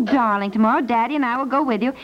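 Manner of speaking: usual speaking voice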